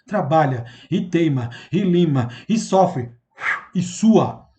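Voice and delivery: "Trabalha, e teima, e lima, e sofre, e sua" item por item, com pausas; gradação enumerada. Shown as a demonstration. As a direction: destacar cada "e" da série, separando "teima", "lima", "sofre" e "sua". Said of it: "olha uma gradação". ("Trabalha, e teima, e lima, e sofre, e sua" pausado, em cadência de lista)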